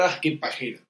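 low, offhand teasing; friendly mild insult. Acted. One friend saying it to another, mild and low. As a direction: toss it off softly as friendly ribbing. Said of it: "diciendo un amigo al otro".

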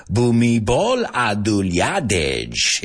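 "Bhumibol Adulyadej" very slowly, syllables stretched; careful pronunciation. Shown as a demonstration. Comic doing his best with a Thai name, slow careful pronunciation. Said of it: "you'll have to excuse my pronunciation".

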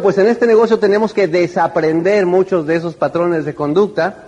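ordinary delivery

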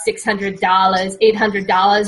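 New York rant that climbs at the end; mild yell. Acted. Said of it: "Richie started to yell".

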